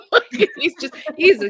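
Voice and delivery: laughing out loud at the idea. Real, not acted. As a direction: giggle as you talk. Laughing while describing him.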